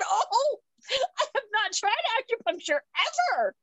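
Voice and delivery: high, airy faux-innocent voice; mock innocent. Telling the doctor she never tried acupuncture, high mock innocence. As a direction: play it wide-eyed and innocent. Retelling her reply to the doctor.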